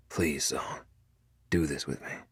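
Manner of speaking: whispered, quiet please; soft whispered plea. A narrator's reading. Cade begging Felicity to sign, whispered. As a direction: beg her gently under the breath.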